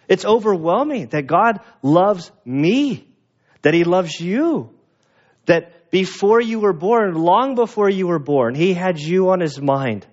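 overwhelmed preacher's wonder; moved, rising wonder. Real, not acted. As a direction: let the awe lift the voice. Preacher marvels at God's love.

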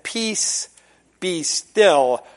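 soft, slow Peace, be still; quiet calming command; hushed. Acted. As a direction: barely breathe it out. Retelling Jesus' words softly.

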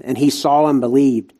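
ordinary delivery

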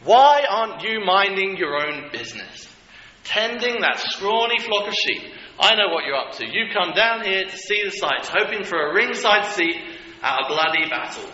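put-on older brother yelling at David to go home; brother losing his temper. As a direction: snap at the kid brother, furious. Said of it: "lost his temper".

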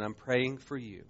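soft and slow, full of pity. Retold or imitated. Dying friend tells young Patrick he prays for him, soft and pitying. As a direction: say it gently, softly, like a dying man's quiet plea. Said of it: "he looked at me with pity".

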